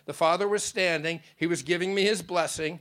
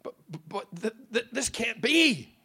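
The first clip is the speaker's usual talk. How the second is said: put-on childish; 8 semitones higher, 4 dB louder, slower than usual. A narrator's reading. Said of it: "His response sounded childish".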